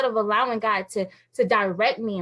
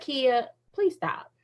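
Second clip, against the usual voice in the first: self-scolding; 6 dB quieter than usual. Retold or imitated. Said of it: "I'd be like".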